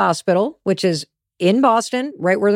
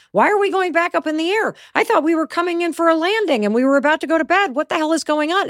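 higher-pitched, hammed-up alarm; mock panic; 6 semitones higher than usual. Nervous system protesting an aborted landing, mock panic. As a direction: play a panicked passenger in a rush of protest. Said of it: "your nervous system is like".

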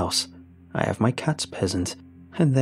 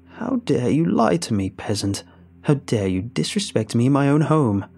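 louder, outraged witch tirade; furious witch; 4 dB louder than usual. Acted. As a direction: rage at the disrespectful guest. Witch rages.

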